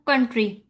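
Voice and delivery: कंट्री with the first syllable कन stressed; teacher demo of stress on कन. Shown as a demonstration. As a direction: say कंट्री leaning on कन. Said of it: "इसकी मैं आपको example देती हूँ".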